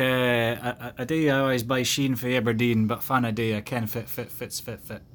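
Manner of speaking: thick Aberdeen Doric accent; broad Doric accent. Shown as a demonstration. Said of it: "Broad Doric".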